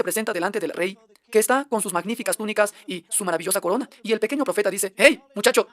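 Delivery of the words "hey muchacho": bold call. Acted. Prophet hails the king boldly.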